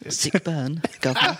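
cheeky mock-British "guvnor" accent; exaggerated British accent. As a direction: send up your own British accent. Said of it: "Tom makes fun of his own accent".

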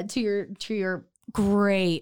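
dry mock praise; sarcastic. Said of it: "I've sensed some sarcasm".

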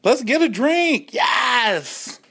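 high, slow squeal of glee; excited cheer. Retold or imitated. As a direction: squeal it like a party call. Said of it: "We were like".

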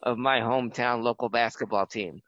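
formal, measured broadcast intro; show host intro. Acted. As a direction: set the scene like a retro TV host.

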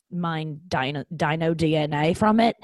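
put-on slipping into an Australian accent; lightly put-on Australian accent. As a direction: let an Aussie accent creep in. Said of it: "slipping into Australian accent again".

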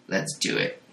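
breathy menacing whisper. Acted. Monstrous father whispering to Jane, creepy whisper.

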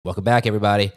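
stuffy, congested voice; blocked nose. Real, not acted. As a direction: talk through a blocked nose. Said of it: "laughing at how you sound".

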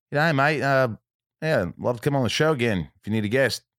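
lightly imitated Australian guest; a touch of Australian, pitched a little up; imitated Australian accent. Guest offers to come on the show, light Australian accent. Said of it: "wants to do the Australian accent".

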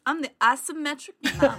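mock grand self-announcement; hammed-up title. Shown as a demonstration. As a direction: say it like a proud title. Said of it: "you gotta say it like this".

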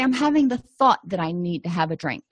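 emphasis on "thought", the rest falling away; stress on thought. Shown as a demonstration. Therapist shows the reframing phrase, stressing "thought". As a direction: lean on the word "thought". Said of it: "we tend to emphasize the word thought".

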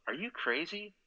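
a teammate gasping at something absurd; incredulous question. Retold or imitated. Teammate Smolinski asks the rookie, mock disbelief. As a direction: pitch jumps high in disbelief.

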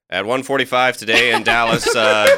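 lightly voiced vintage radio announcer; old-timey newscaster. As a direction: read it like a newsreel anchor. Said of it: "talk like an old-timey newscaster".

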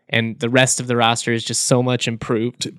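hoarse, voice giving out; tired voice giving out. Real, not acted. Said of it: "losing my voice a little bit".

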